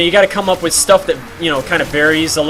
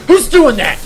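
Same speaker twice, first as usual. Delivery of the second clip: imitating an irritated stranger shouting to stop; mock angry; 8 semitones higher than usual. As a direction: scold the unseen prankster. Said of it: "some people get, like, angry with you".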